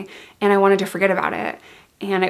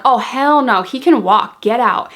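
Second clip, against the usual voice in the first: mildly raised, indignant retold outburst; retold yelling; 3 semitones higher, 5 dB louder, slower than usual. Throwing boyfriend out of the friend's car, retold yelling. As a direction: act out kicking someone out, somewhat louder. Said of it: "So I'm yelling at him".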